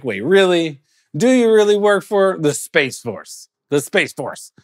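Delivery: can't believe what he just heard; high, incredulous re-asking; amazed disbelief. Retold or imitated. Asking Space Force man, amazed.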